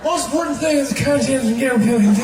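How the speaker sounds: loud run-together mumble; Joe Biden. Acted. President addressing the country, weird loud mumbling. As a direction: slur the words into one mumbled blur. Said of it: "He always does that weird mumbling thing".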